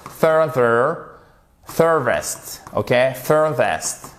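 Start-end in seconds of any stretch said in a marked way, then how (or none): 0.1-1.2 "further" joined up, first syllable stressed. Shown as a demonstration. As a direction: put the weight on the start of "further". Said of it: "faut bien faire l'accent tonique qui est sur la première syllabe". (« further » accentué sur la première syllabe)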